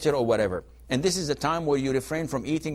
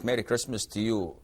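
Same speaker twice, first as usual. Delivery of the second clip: lower, softer reply to the greeting; a Muslim returns the greeting: lower, softer, lightly acted; voicing the forbidden reply; 4 semitones lower, 4 dB quieter than usual. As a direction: answer back lower and quieter. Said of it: "we don't say it back".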